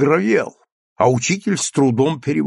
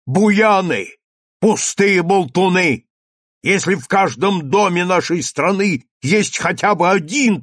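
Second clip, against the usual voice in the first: loud, high scolding; thundering rebuke; 6 semitones higher, 3 dB louder than usual. A narrator's reading. Priest scolds the two quarrelling men, thundering. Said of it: "загремел ксёндз".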